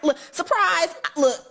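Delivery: laughing while she says surprise. Real, not acted. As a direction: giggle through the surprise. Repeats the reveal while laughing.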